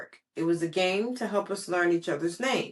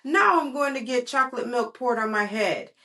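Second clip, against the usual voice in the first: put-on worried child; 5 semitones higher than usual. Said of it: "I said kind of loud".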